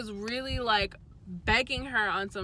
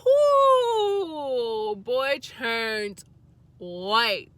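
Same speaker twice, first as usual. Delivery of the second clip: whooping laugh; 3 semitones higher, 9 dB louder, much slower than usual. Real, not acted. Telling viewers about his face, a loud laughing whoop. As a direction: cackle at how busted he was. Reacting to boyfriend's shocked face.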